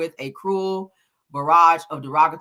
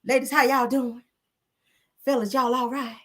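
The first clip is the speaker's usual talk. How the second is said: a singer's voice; 7 semitones higher than usual. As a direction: coo the greeting in a hint of a singer's style. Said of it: "in my Erykah Badu voice".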